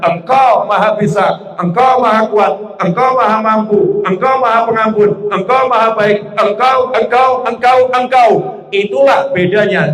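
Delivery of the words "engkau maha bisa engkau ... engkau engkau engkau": rising praise. Shown as a demonstration. Example prayer praising God.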